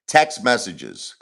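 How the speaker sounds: slow, careful Text messages with every sound clear; careful pronunciation. Shown as a demonstration. Self-correcting after saying it like Texas, slow and careful. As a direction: spell out Text messages slowly, not Texas. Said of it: "I always say it wrong".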